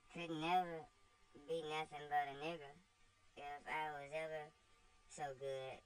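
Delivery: put-on cheeky girl shrugging off blame; voiced slave girl Topsy. Topsy answers her master with cheeky girlish voice.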